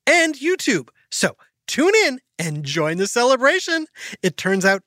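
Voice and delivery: put-on upbeat, sing-song ad read for kids; sponsor ad read. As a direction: sell the special with a cheerful grin. Reads sponsor ad.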